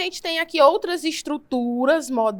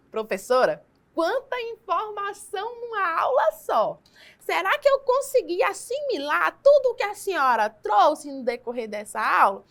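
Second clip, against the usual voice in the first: higher voice of a student worn out by too much content; overwhelmed student; 4 semitones higher than usual. Pretend. Student tells teacher she gave too much, higher and overwhelmed. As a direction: play the pupil who can't take it all in.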